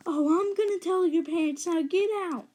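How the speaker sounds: high-pitched scolding imitation; mock angry mom. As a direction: threaten like a fed-up mom. Angry mom threatens babysitter.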